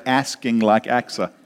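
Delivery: American "Asking", flat a as in "cat", rhyming with Achsah; American accent. Shown as a demonstration. Preacher shows congregation the rhyme he wants, American accent. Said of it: "I wish I had an American accent".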